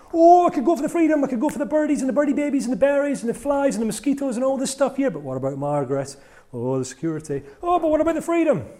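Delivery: high, loud squeaky Tweety bird voice; little bird voice. Retold or imitated. Speaker voices a pet bird debating freedom, high chirpy voice. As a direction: chirp it out like a tiny cartoon bird torn between freedom and safety. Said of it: "Like Margaret's bird, poor little Tweety".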